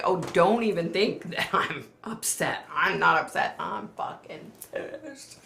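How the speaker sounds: mock indignation, slowing on the last words; retold pissed-off retort. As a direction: replay an angry comeback, half laughing. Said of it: "tears of being pissed off".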